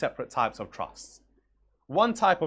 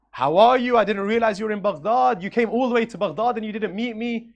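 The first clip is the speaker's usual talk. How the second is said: hearty royal greeting; 7 semitones higher, 6 dB louder than usual. Acted. King greets stranger before townsfolk.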